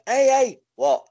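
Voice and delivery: high, loud comic exclamations; hammed-up high catchphrase bursts; mock foreign-dialect misunderstanding. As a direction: call out in a silly high voice. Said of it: "like, a foreign dialect".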